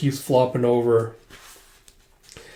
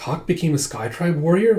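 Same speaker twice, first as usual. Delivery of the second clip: higher, rising echo question; puzzled question; 4 semitones higher than usual. Retold or imitated. She wonders what he means, puzzled question. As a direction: repeat it back in mild disbelief. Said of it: "What does he mean?".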